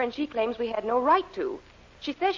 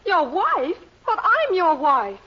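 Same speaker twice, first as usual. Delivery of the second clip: louder, higher cry of disbelief; can't believe he forgot her; shocked disbelief; 4 semitones higher, 5 dB louder, slower than usual. Acted. Wife shocked he denies her.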